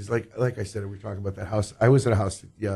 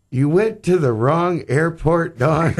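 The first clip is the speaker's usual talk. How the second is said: slow, laughing mock tease, louder; laughing while quoting; 6 semitones higher, 4 dB louder, slower than usual. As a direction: retell the jab through a laugh. Retelling Bert laughing at her.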